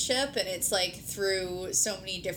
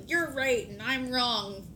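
higher, drawn-out mock argument; mock bickering; 5 semitones higher, slower than usual. Partner mimicking the kind of argument they reject, mock bickering. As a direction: stretch it out in a raised, dismissive singsong.

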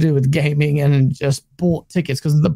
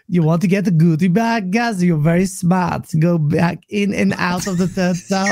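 Boxenberg voice. Retold or imitated. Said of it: "I was doing an impression of you, Boxenberg".

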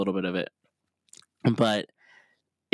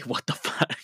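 laughing mock yell. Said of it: "at the top of his lungs".

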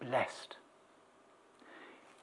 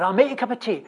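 firm offer; 5 semitones higher, 4 dB louder, much faster than usual. Retold or imitated. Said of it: "didn't say would you like".

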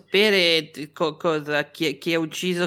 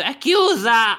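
shouted through the door, higher; calling from far away; 5 semitones higher, 4 dB louder, slower than usual. Acted. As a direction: yell it through the closed door. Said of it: "sto dicendo".

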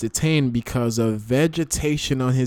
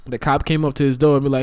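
ordinary talk

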